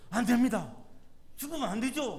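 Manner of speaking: loud, rebuking protest to his teacher; scolding retort. Retold or imitated. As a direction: push back at the master, scolding him. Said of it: "꾸짖고 막 책망하는 톤으로". (선생님을 꾸짖듯 크게 대드는 베드로)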